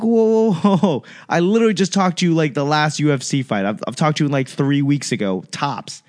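high, fast stunned whoa; hearing the news, high fast disbelief. Retold or imitated. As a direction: rattle it off in shock. Shocked retold reaction.

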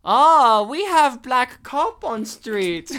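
mock a heavy Asian accent, dragging the words; a hammed-up thick Asian accent, slowed down. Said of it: "with an Asian accent, that thick Asian accent".

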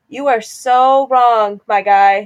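slow, drawn-out emphatic rebuke, mildly angry; exasperated retort. Retold or imitated. Woman retelling her argument about privilege, exasperated. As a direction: stretch it out with mild exasperation. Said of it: "I was getting so mad".

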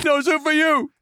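high, clipped mock Soup Nazi; Soup Nazi impression. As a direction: bark it like the Seinfeld soup man. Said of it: "like a Seinfeld episode".

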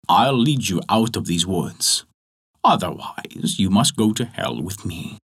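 low, menacing devil; the devil offers the three men a bargain; devil's threat. Acted. The devil speaks.

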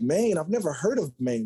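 retold bafflement. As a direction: replay your mild disbelief at the offer. Retells baffled reaction to college offer.

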